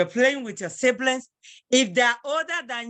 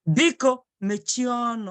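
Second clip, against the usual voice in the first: polite request. Shown as a demonstration. Teacher showing how to ask a senior, polite. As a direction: ask nicely, as to an elder. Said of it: "But in a polite way".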